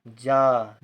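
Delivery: जा with a long drawn-out aa; long vowel. Shown as a demonstration. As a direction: hold the vowel of जा. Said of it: "जा देर तक बोला जा रहा है".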